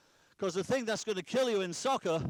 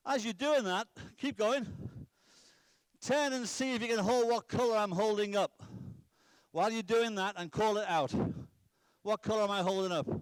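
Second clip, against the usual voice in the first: calling out; 4 semitones higher than usual. Real, not acted. Coach calling drill instructions to the boys at distance, raised voice. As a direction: project it to players out on the field.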